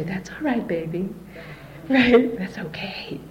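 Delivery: soft, soothing imitation of a mother; forgiving mother. Mother in spirit forgiving her daughter, soft soothing voice. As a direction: hush it gently.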